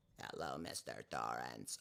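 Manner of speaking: hushed, hoarse voice. Reading a comment that the speaker is playing Jack Torrance, answering in Tony from The Shining voice. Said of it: "I kind of sound like Tony".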